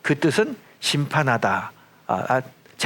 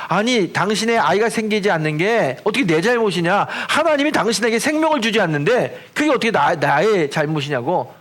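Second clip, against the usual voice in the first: angry retort; 3 semitones higher than usual. Retold or imitated. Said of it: "화를 내는 거예요".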